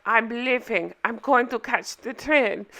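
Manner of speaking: mock announcement in a put-on foreign accent; Anna's foreign accent. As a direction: imitate her with a vague foreign accent. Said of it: "Anna puts on this face and is like".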